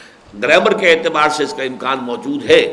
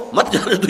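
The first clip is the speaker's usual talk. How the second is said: مت جانے دو said higher as one unbroken phrase; مت joined to جانے; 4 semitones higher than usual. Shown as a demonstration. Lecturer repeating the key grouping, مت جانے دو in one piece. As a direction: keep مت tied to جانے دو, no pause between. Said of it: "یہ ہے اصل شے".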